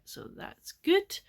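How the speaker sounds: high, slow, rising "so that's good"; high drawn-out. Real, not acted. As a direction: stretch it up brightly. Pleased about enjoying the book.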